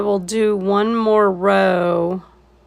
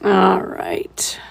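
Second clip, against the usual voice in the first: whispered; 3 semitones lower than usual. Real, not acted. Quiet aside while painting.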